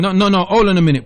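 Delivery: fast, loud no no no to stop him; host talks over a ranting caller, loud and fast; loud interruption. Real, not acted. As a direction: cut in hard and fast. Host cuts off caller's insults.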